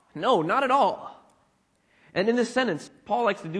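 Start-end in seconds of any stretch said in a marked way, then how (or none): 0.1-1.2 slow, higher, emphatic "No, not at all". Retold or imitated. Preacher voicing Paul answering his own question, emphatic no. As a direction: lean firmly on "No", stretching "not at all". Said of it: "It's an emphatic no".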